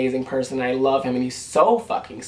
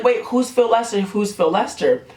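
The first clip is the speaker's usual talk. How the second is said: confused surprise; 5 semitones higher than usual. Retold or imitated. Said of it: "I was like".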